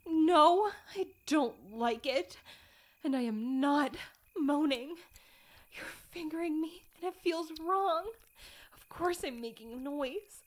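loud, defensive denials; flustered protest. Acted. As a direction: insist loudly, flustered.

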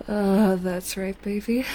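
normal talking voice

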